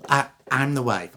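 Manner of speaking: hesitant, near-natural acted answer; first wife. First wife identifying herself to the judge, hesitant. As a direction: answer with a small stammer.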